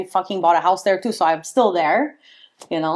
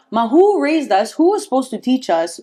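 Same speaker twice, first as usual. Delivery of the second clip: indignant retort; 4 semitones higher than usual. Real, not acted. Retorting to the elders.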